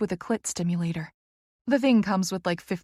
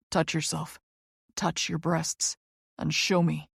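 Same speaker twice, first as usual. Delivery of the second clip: harsh command; 2 semitones lower than usual. A narrator's reading. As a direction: give the order firmly. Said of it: "his voice harsh with command".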